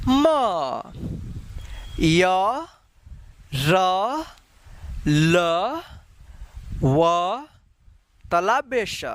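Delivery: teacher reading out the Hindi consonants for students to repeat; slow recitation of letters. Shown as a demonstration. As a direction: recite the alphabet letter by letter for learners. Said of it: "हम पढ़ना यहाँ पे शुरू करते हैं".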